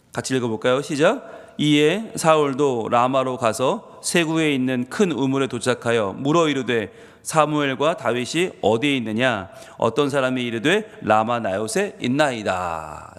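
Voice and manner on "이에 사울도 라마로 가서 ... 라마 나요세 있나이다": slow, lower reading voice; scripture reading. Acted. Preacher reads Samuel aloud to the congregation, slow and solemn. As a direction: read the verse slowly and solemnly.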